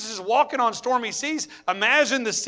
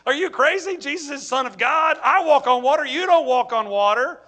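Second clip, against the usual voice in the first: a touch of a fed-up parent, louder; mock exasperated; 5 semitones higher, 5 dB louder than usual. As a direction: scold them like a house parent would. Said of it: "if I'm Jesus".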